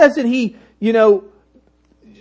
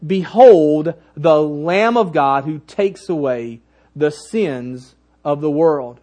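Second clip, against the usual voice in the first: solemn declaration; 5 semitones lower, slower than usual. Acted. Quotes John the Baptist's solemn declaration.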